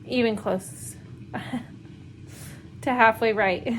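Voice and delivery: real breathy laughs breaking up the words; laughter through tears. Real, not acted. Homeschool mom venting about her daughter's worksheets, tearful laughter. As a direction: laugh so as not to cry. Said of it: "laughter tears".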